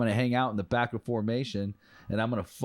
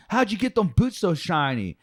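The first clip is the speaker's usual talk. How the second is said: higher, louder amazed question; impressed drill sergeant; 9 semitones higher, 6 dB louder than usual. Retold or imitated. Drill sergeant quizzing the private on his boots, high and loud. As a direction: ask it like you can't believe it.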